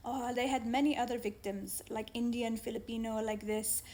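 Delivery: put-on a self-described terrible Arabic accent on the policeman's words; lightly imitating the policeman in an Arabic accent. Policeman quoted to the victim, in a mildly put-on Arabic accent. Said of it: "said in his Arabic accent".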